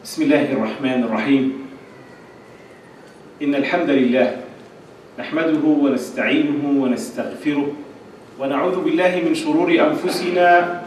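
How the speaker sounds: low, soft recited praise; Arabic opening invocation. Acted. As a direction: recite the opening formula softly and evenly.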